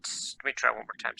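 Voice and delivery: whispering. Real, not acted. Muttering to himself at computer.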